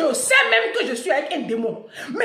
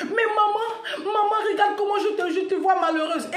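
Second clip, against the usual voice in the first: put-on child pleading; 6 semitones higher than usual. Storyteller voicing the daughter pleading with her mother. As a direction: plead like a sad small child.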